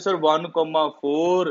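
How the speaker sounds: slow, drawn-out student reciting the answer; a lightly voiced student answering very slowly; student's answer. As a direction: spell it out like a pupil answering sir. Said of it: "you will say".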